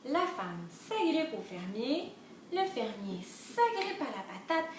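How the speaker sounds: measured, sing-song storybook reading; lilting story narration; children's storytelling. A narrator's reading. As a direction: read the chain to little ones.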